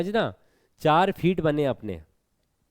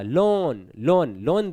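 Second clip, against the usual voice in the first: लोन with a long held vowel; stressed, drawn out; much slower than usual. Shown as a demonstration. Teacher showing the stressed half of a pair, लोन held long. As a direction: stretch each लोन, leaning on it. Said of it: "देर तक होगा".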